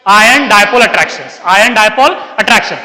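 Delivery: drawn-out, very slow repetition; slow dictation. Real, not acted. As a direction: repeat the term slowly for note-takers. Teacher dictates the answer slowly. (धीरे-धीरे दोहराकर लिखवाते हुए)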